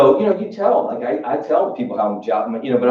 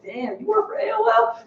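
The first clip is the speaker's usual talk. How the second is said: mock amazement; 6 dB quieter than usual. Retelling a friend's job brag.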